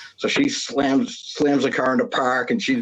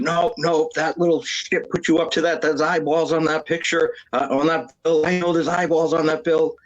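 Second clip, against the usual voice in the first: mock panicky woman, voiced higher; panicked coworker; 5 semitones higher than usual. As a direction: imitate her frantic denial, pitched up. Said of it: "and she said".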